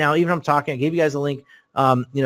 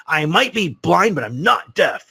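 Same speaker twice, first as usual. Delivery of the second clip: slow, emphatic retold outburst, slightly raised; mock scream; 4 semitones higher, slower than usual. Blind caller objecting to overheard whispering, mock scream. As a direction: draw out each word in indignant imitation, short of yelling. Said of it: "he screams at me, screams at me".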